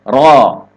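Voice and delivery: "ro" with a full, open heavy vowel; thick open ro. Shown as a demonstration. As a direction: say a firm sustained "ro" without pushing it forward. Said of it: "Ro itu dibaca".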